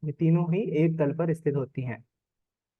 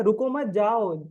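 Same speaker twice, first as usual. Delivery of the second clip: "रुको मत" as one unit, then "जाओ" higher and drawn out; comma after मत; 5 semitones higher, slower than usual. Shown as a demonstration. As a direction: join "रुको मत", set off a long "जाओ". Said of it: "और comma नीचे क्या लेंगे". ("रुको मत" साथ में, फिर खींचकर "जाओ")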